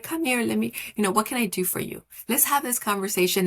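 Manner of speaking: light, quick coaxing tone; talking to a child. Shown as a demonstration. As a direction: coax an unhappy little kid. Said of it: "you're like".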